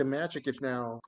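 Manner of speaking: ordinary talk, nothing marked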